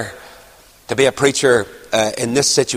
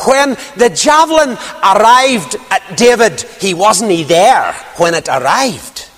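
lightly imitated elder, emphatic; Alec Easton; 4 semitones higher than usual. Elder explaining about David and the javelin, lightly imitated. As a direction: start high and settle as you make the point. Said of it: "I can hear him yet".

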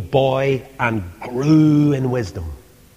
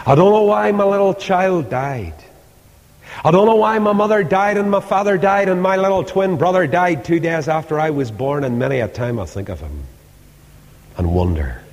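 grieving prayer; 7 semitones higher, faster than usual. Retold or imitated. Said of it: "and say".

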